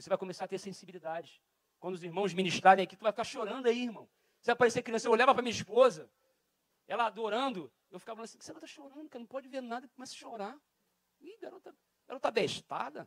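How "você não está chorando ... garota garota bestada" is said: put-on slight, slow, sing-song northern Brazilian accent. Husband recalling his wife crying in worship, with a slight northern Brazilian accent. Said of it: "Estou ficando meio com sotaque do norte".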